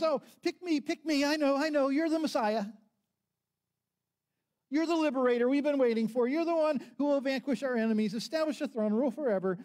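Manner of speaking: high, loud, breathless pick-me shouting; a kid desperate to be called on, shouting high; eager screaming. A narrator's reading. Peter shouting to Jesus to be picked, high and loud. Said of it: "He screams".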